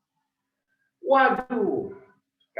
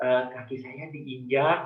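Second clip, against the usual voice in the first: polite Solo man; 2 semitones higher, slower than usual. Retold or imitated. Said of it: "akan bilang begini".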